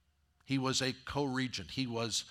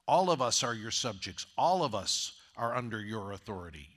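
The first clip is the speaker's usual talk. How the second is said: earnest praise. Retold or imitated. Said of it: "And, and David says".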